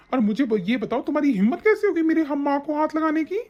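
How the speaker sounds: high, indignant scolding; angry confrontation. Acted. Husband accusing wife of hurting his mother, angry.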